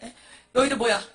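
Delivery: loud, confrontational questioning; thug-like challenge. Acted. Gangster monk confronting the demons, thuggish challenge. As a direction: demand it like a gangster. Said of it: "완전히 깡패".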